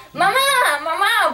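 retold yell for mom, high on the second call; calling mom in a panic, mock yell. Girl yelling for her mom during a break-in, mock panicked yell. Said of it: "empiezo a gritar".

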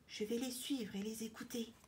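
soft eavesdropper's aside; furtive, hushed. Acted. Elephant planning to listen in on the king, hushed. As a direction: say it softly, in secret. Spies secretly announce they will follow.

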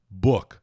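Book with a short, loose oo; lax vowel. Shown as a demonstration. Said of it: "A boca fica assim meio mole".

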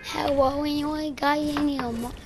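put-on little kid voice; squeaker kid. Troll greets game lobby, fake little-kid voice. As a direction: sound like a small child online. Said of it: "I'm the squeaker".

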